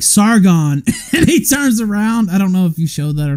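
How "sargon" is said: mock calling someone's name across a crowd; calling out loudly. The crowd trying to get Sargon's attention, mock calling. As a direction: call him, a little raised. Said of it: "then finally they're like".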